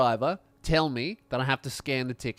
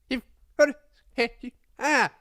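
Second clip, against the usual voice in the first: exasperated bus driver; 7 semitones higher than usual. Retold or imitated. Bus driver scolding another passenger, high exasperated order. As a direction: drum it in, fed up. Driver again, every stop.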